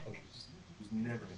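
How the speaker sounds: talking through a tube; hollow speakerphone sound, like a tube. Real, not acted. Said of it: "you kinda sound like you're talking through a tube".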